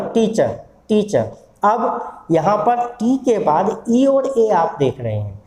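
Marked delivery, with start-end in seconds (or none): 0.1-1.3 टीचर said slowly, ending in a schwa; silent final R. Shown as a demonstration. Teacher warns against sounding R, slow टीचर with silent R. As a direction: slowly repeat टीचर, leaving off the R. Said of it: "रा नहीं बोलना".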